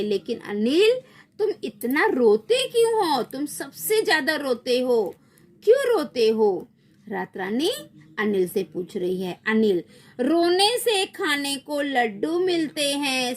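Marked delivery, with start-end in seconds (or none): 0.0-6.7 exasperated questioning. Acted. Questioning the crying child. 10.2-13.3 put-on whiny child. Child character answers in story.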